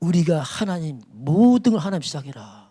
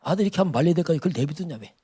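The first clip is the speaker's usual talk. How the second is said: rebuking voice; 2 semitones higher than usual. Acted. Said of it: "그게 하나님 책망이죠".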